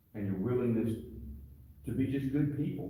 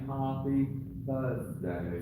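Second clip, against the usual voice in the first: mock British accent, falling at the end; put-on English accent; much slower than usual. Sensei telling the class what to sing, in a mock English accent. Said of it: "in your best English accent".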